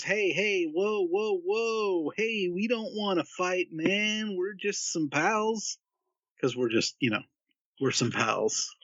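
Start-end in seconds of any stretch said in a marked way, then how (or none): 0.0-5.8 higher, drawn-out peacemaking appeal; placating plea. Acted. Player soothing a giant rat before a fight, placating. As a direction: talk the rat down, pitched up, slowing at the end. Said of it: "And I want to ask, or I wanna, you know, just".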